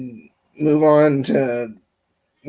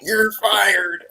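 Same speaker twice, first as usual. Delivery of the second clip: Trump catchphrase; 4 semitones higher than usual. Pretend. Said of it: "I'm not Donald Trump".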